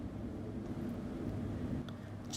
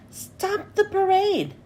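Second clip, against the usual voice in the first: higher, slow commanding shout; 6 semitones higher, slower than usual. A narrator's reading. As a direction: halt the parade with a cry. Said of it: "shouted SpongeBob".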